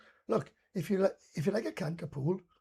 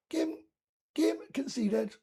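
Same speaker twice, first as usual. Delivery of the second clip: high, slow formal ruling; referee's verdict; 8 semitones higher, much slower than usual. Retold or imitated. Referee Kieran declaring the game forfeit, slow formal call. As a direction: pronounce the verdict like an umpire.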